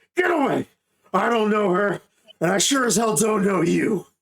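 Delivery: high, crazed, terrified ghoul scream. Describing a fight scene, voicing a ghoul yelling from inside: psychotic, terrified ghoul yell. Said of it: "in this almost psychotic and terrified voice".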